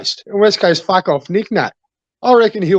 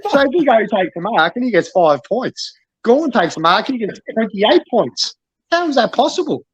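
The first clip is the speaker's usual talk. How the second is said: indignant, rising to a high-pitched question; exasperated rant; 3 semitones higher than usual. Real, not acted. Coach railing to mates about the scoring, exasperated rant. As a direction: argue the unfairness, ending in disbelief. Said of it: "Just on a rant".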